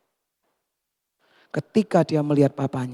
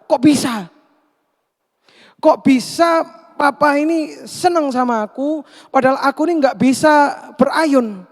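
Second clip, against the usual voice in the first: angry outburst; 6 semitones higher than usual. Acted. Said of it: "dia marah sama papanya". (protes marah, nada tinggi dan keras)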